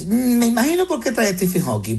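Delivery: imagined listener musing. Pretend. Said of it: "gente que nos está escuchando y dice".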